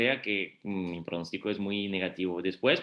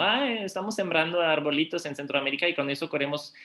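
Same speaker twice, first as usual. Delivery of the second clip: higher-pitched parody of naive enthusiasm; mocking caricature; 5 semitones higher than usual. Panelist voicing critics' caricature of a tree-planting scheme, mocking. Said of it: "muchos han caricaturado como".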